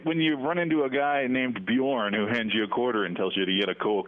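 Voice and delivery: folksy Minnesotan, long O's; Minnesota accent. Pretend. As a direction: stay in your Minnesota accent. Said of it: "give us your best Minnesota accent".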